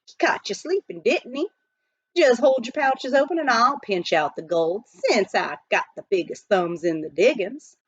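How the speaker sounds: lightly voiced jolly miner; jovial miner. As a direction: keep the eager crowd in line, amused. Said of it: "Pitch Pine Billy was laughing".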